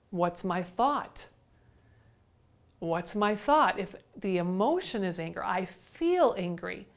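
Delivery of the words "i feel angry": slow, measured, with "feel" drawn out; stress on FEEL. Shown as a demonstration. Teacher trying out the reworded thought, stressing "feel". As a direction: dwell on "feel" before "angry". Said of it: "I know when I say that".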